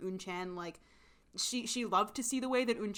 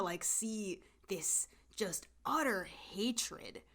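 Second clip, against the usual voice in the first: whispered dread; 4 dB quieter, much slower than usual. Real, not acted. Describing horrific hatred.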